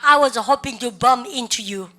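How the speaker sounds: very slow, each word spelled out for students; teacher's slow drill read; slow repeat-after-me. Shown as a demonstration. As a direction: model it slowly for the class to copy. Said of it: "시작".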